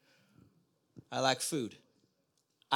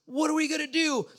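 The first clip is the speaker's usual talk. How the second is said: retold pleading prayer; 7 semitones higher than usual. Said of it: "now she's like".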